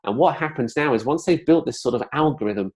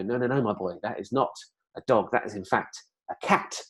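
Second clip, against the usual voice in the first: put-on gentle correction of a toddler; 5 dB quieter than usual. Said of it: "And you had to go".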